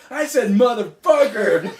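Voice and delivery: put-on quoting the kid while cracking up; half-laughing, slowed-down quote; laughing through the quote. Quoting son's confession, laughing.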